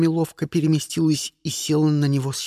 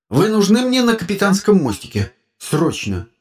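raised, pressing order; urgent summons; 5 semitones higher, 5 dB louder than usual. A narrator's reading. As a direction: order them to come at once. Captain urgently summons crew. (срочный приказ, повышенным голосом)

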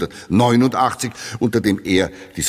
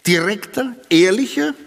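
higher, gushing critic's praise; mock enthusiastic quote; 7 semitones higher than usual. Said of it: "ich zitiere".

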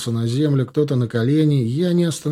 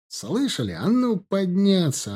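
yelling; 7 semitones higher than usual. Acted. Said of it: "орал Бодрых".

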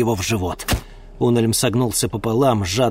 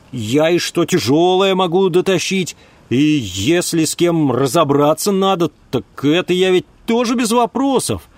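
put-on a young man bragging hard; eager young lad; 7 semitones higher, 5 dB louder than usual. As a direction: sell yourself to the smugglers, eagerly. Ulm pleads his usefulness.

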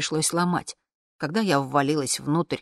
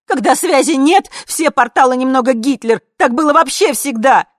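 loud, much higher shout; 9 semitones higher, 14 dB louder than usual. Acted. Daughter shouting at her mother, defiant shout. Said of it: "закричала я".

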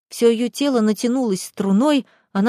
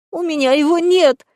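high, sobbing cry of despair; high tearful cry; despairing sob; 7 semitones higher, 4 dB louder than usual. Acted. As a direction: sob it out hopelessly. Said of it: "в отчаянии всхлипнула Боженко".

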